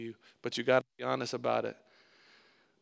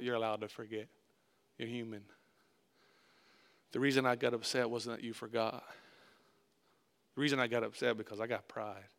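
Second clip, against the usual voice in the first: soft, low reassuring apology; humble confession; 4 semitones lower, 7 dB quieter than usual. Retold or imitated. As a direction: lower the voice and gently take the blame. Humble apology to Curtis, retold.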